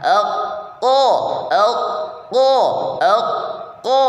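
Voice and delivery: ek ko dengan tekanan tertahan; qaf syiddah. Shown as a demonstration. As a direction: qaf ditekan. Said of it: "syiddah dan penekanan". (ek ko dengan penekanan)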